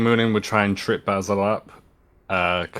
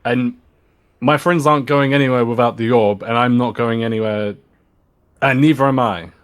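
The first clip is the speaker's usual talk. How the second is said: defiant shout; 3 semitones higher, 6 dB louder than usual. Acted. Moonin defies the ogre.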